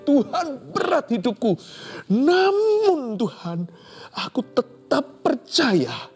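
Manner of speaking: high, slow, pleading cry to God; tearful prayer. Shown as a demonstration. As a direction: pray it as if weeping. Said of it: "Ini dengan mencucur air mata ini".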